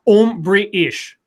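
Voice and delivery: "Um, British" joined into one phrase; run together. Shown as a demonstration. Host demonstrates the trick, "Um, British" run together. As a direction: say "Um, British" without gaps between the pieces. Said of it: "And say it all really fast".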